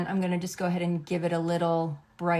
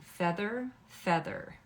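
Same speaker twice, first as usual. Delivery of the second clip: each feather softer until it's only breath; fading to a whisper; 2 semitones higher, 7 dB quieter, slower than usual. Real, not acted. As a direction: let the word die away into a whisper while you tap. Repeating while tapping makeup softly.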